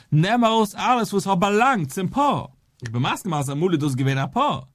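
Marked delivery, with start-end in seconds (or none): 0.1-2.5 "alles" and "belangt" punched higher and louder; emphatic explanation. Real, not acted. Teacher translating the verse for students, emphatic, with "alles" driven home. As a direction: hammer home "nimm aus alles", raised pitch on each stressed word.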